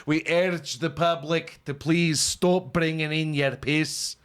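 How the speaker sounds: lighter mock Scottish accent. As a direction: repeat the notice in a milder fake Scottish accent. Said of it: "That accent".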